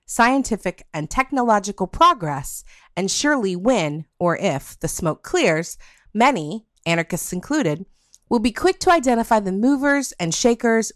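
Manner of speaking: measured, deliberate reading of a written passage; steady radio-essay reading voice; reading aloud. Acted. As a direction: read it like a prepared essay to listeners. Reads quoted passage and topic prompt.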